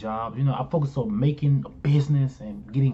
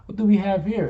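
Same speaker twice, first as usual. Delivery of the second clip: sly teasing; 6 semitones higher than usual. Retold or imitated. Repeats the teasing quote.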